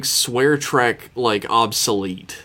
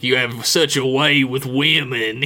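jailed Southerner. Retold or imitated. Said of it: "the guy in the jail cell is like".

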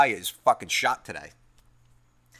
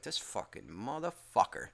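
muttered under breath; 6 semitones lower, 13 dB quieter than usual. Retold or imitated. Muttering through clenched teeth.

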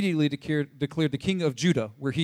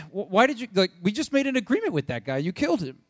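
higher, stammering retold protest; mock exasperation; 5 semitones higher than usual. David confronting Joab over the killing, mock exasperation. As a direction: play mildly mad and flustered. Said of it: "David is mad 'cause he's like".

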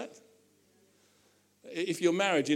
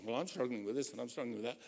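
quieter, lower, fast complaining; a quick mock whine; mock moaning; 8 semitones lower, 13 dB quieter, faster than usual. Church members complaining about their struggles, mock whiny. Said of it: "people in the room are saying".

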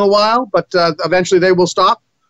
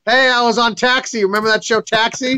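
lightly voiced Danny DeVito, higher; a hint of Danny DeVito, pitched up; 4 semitones higher than usual. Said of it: "I can be Danny DeVito".

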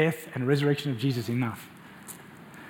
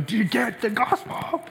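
half-shouted, raised plea to himself; screaming at my soul; 9 semitones higher, slower than usual. Retold or imitated. Pastor shouting at his own soul, raised urgent voice. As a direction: push it out at your own soul. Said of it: "I'm screaming at my own soul".

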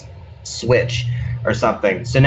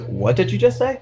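startled coworker; 8 semitones higher than usual. Retold or imitated. Coworker's startled reply acted.

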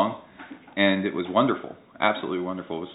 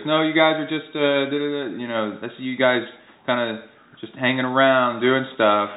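nosy neighbor; 4 semitones higher than usual. Retold or imitated. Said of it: "and she goes".

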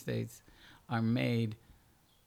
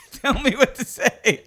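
higher and louder, pleading to be told; exasperated demand; 13 semitones higher, 13 dB louder than usual. Retold or imitated. Actress pressing her director, loud and exasperated. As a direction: throw the question back at the director. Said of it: "Tara finally goes".

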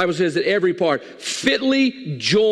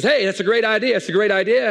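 brightly agreeing, a little higher; eager pig; 4 semitones higher than usual. Acted. Pig cheering the bacon and eggs plan, eager. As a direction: agree before thinking it through.

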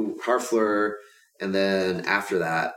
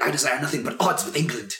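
cocky mock-villain quote, pitched up; lightly acted arrogant prince, a touch higher; 4 semitones higher, faster than usual. Podcaster quoting the arrogant Dauphin to a co-host, cocky. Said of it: "he's arrogant and cocky. He's like".

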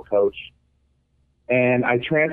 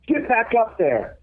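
high, drawn-out call at an even volume; mock yell, pitched well up and stretched slow; retold coach's yell; 10 semitones higher, slower than usual. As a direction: imitate a coach hollering across the field, without real force. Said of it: "And again, he yells it".

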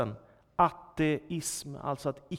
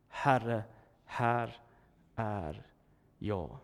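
lower, softer, fading word by word; humble answer; 7 semitones lower, 5 dB quieter, much slower than usual. Acted. Isaiah answering God's call, hushed and humble. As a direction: answer God in hushed surrender.

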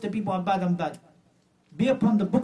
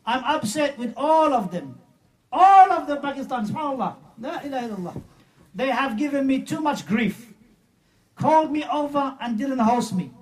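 hammed-up weepy lament, voice pitched up; mock crying; 5 semitones higher than usual. Preacher mocking Tahir Qadri's tearful dream story, mock weeping. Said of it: "Tahir Qadri is crying now".

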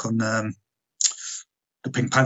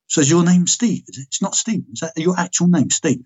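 mildly acted disbelief, pitched up; incredulous retold question; 6 semitones higher than usual. Therapist double-checking the patient's name, incredulous.

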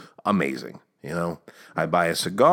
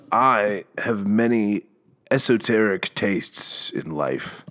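quoting the guy; slower than usual. Retold or imitated. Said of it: "this guy said, and I quote".

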